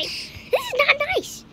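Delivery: high, slow, drawn-out complaint; whiny protest. Real, not acted. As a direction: stretch it out high and plaintive. Protests at scary boss.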